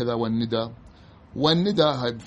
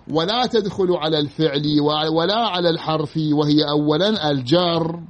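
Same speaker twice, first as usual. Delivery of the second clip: measured, formal Arabic recitation; deliberate classroom dictation voice; reading a textbook aloud; 4 semitones higher, 4 dB louder than usual. Real, not acted. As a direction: read out the grammar text with full endings. Reads the grammar text aloud.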